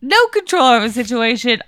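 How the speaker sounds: high, insistent denial; indignant protest. Acted. Protesting innocence.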